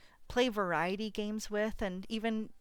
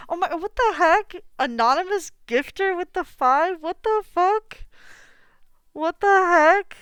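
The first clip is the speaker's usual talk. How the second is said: high, loud, stunned outburst; real shocked disbelief; 8 semitones higher, 12 dB louder than usual. Real, not acted. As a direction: shriek your thanks, floored by a surprise gift. Shocked by anonymous gift subs.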